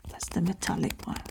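soft unvoiced whisper, close to the mic. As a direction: breathe it out like an ASMR video. Whispering while showing objects.

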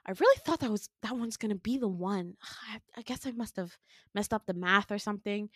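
sighing, deflated, dropping toward a whisper; weary disappointment. Retold or imitated. Villain disappointed by a failed clone, weary. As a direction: sigh it out, mildly let down.

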